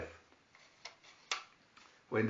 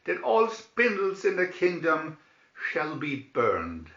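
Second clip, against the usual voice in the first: a commanding decree, higher then falling; ordered; 3 semitones higher, 3 dB louder than usual. Acted. King banning all spindles, firm and commanding. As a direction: lay down the law as king. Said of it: "he ordered".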